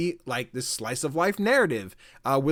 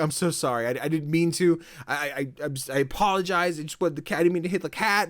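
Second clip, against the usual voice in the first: higher-pitched, stammered panicky apology; mock panicking; 4 semitones higher than usual. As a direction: imitate a panicked kid tripping over apologies. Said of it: "he just starts panicking".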